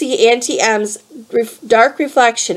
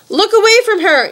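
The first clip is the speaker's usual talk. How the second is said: shouted; 11 semitones higher than usual. A narrator's reading. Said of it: "Annabeth shouted".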